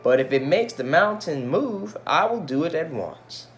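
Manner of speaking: eager. Acted. Ming Lo resolves to dance.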